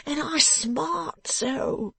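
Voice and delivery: high wailing yelp, words dragged out; crying out in pain. A narrator's reading. Beaten man to the woman slapping his back, crying out in pain. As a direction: howl it slowly like someone freshly thrashed. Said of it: "to scream and to cry out".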